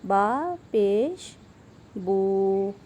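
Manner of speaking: slow با پیش then a short بو, neither stretched nor jerked; short even syllable. Shown as a demonstration. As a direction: keep بو short and smooth. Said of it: "با کو لمبا بھی نہیں کرنا اور جھٹکا بھی نہیں لگانا". (بو کو چھوٹا اور ہموار)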